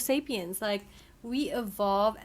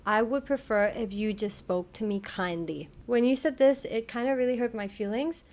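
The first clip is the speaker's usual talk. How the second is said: clear example. Shown as a demonstration. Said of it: "Number one, clear".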